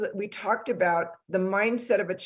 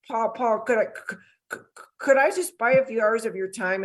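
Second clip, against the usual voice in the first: stammering; 3 semitones higher than usual. Retold or imitated. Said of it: "I'm stammering".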